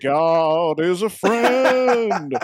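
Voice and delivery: slow, loud, drawn-out preacher voice; evil preacher. Retold or imitated. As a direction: ham up a fire-and-brimstone preacher. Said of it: "sounded like the evil preacher".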